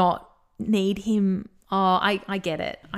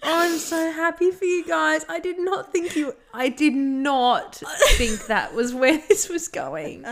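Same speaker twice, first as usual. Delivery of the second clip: snotty crying; 4 semitones higher than usual. Real, not acted. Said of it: "the weeping".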